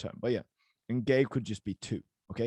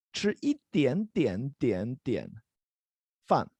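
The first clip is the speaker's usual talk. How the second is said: slow, separated beats on 点点点点; drawn-out repetition; slower than usual. Shown as a demonstration. Teacher illustrating a little bit of rice, drawn out. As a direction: stretch out each 点, then pause before 饭.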